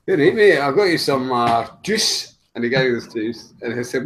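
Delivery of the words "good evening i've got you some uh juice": put-on Scottish accent. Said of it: "gonna do an impression of a Scottish person".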